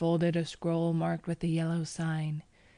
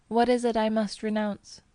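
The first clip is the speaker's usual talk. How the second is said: higher, louder baffled question; puzzled; 5 semitones higher, 5 dB louder than usual. A narrator's reading. Cousin humouring the narrator's demand, puzzled. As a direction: ask it lightly, at a loss.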